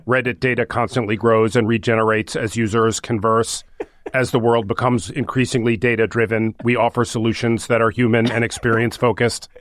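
monotone robot reading. Pretend. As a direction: read it like a flat machine. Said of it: "read it in a robot voice".

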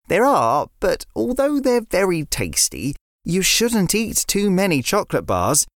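put-on a sensible boy explaining gently; a hint of a child lecturing a friend; young boy River. River voiced by narrator.

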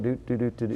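soft, listless do-do-do; mumble-hum like someone shuffling around the court; passionless hum. Retold or imitated. Player walking the court without passion, listless humming. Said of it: "with no, like, passion".

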